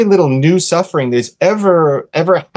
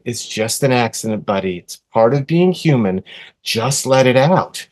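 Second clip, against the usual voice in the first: a gentle hush; soothing; 3 semitones lower than usual. Retold or imitated. Calming angry son.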